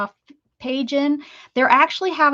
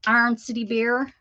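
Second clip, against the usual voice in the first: imitating mom's Pittsburgh accent; lightly voiced Pittsburgh accent. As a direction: say it like a Pittsburgh mom. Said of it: "That was my Pittsburgh accent coming out".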